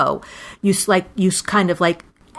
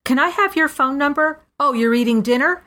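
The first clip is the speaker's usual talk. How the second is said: mock Seinfeld; 7 semitones higher than usual. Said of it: "And he goes".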